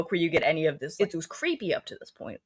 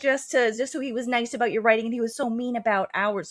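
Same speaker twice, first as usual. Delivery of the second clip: higher mock-frantic complaint; aggrieved, hurried imitation; 4 semitones higher than usual. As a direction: imitate a possessed rant, pitched up. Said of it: "He keeps getting more frantic".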